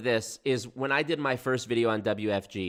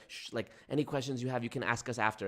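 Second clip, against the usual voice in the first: hushed; 7 dB quieter, faster than usual. Retold or imitated. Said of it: "was like".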